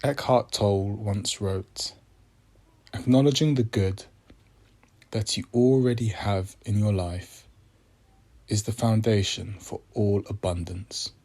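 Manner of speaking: measured meditation voice with long pauses; unhurried, reflective prompts, phrase by phrase; guided meditation. Acted. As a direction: guide listeners gently, leaving space after each phrase.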